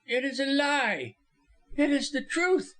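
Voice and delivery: very high, emphatic outcry; high-pitched, heated exclamation; impassioned cry. A narrator's reading. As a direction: cry it out in protest. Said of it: "cried Missus Moxton, finding her voice".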